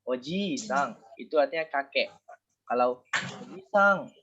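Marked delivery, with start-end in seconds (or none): 3.2-4.1 ojisang said with a short "o"; teaching demo of a short vowel. Shown as a demonstration. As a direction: keep the "o" in oji-sang brief. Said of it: "itu paman".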